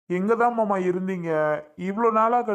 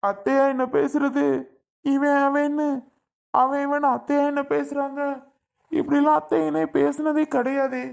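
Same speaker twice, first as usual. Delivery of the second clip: indignant raised voice; 7 semitones higher than usual. Acted. Son protesting his mother's insults to his uncle, raised indignant voice. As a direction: push the pitch up in disbelief.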